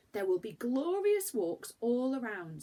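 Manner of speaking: lightly voiced excited girl; eager girl. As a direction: exclaim it like a thrilled girl. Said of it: "said Franny".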